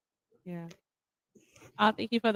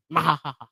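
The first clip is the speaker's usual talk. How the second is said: evil laugh; 2 semitones lower than usual. Pretend. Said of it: "That's my evil laugh".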